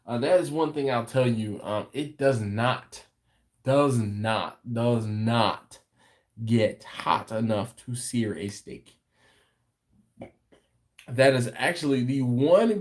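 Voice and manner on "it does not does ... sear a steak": each "does not" set apart by pauses; slow it down and land every "does not"; emphatic stress. Real, not acted. Telling viewers the cooker can't sear, emphatic "does not". Insisting the cooker falls short.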